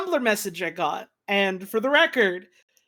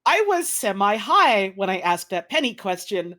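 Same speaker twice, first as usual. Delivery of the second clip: reading while laughing; slower than usual. Retold or imitated. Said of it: "and I quote".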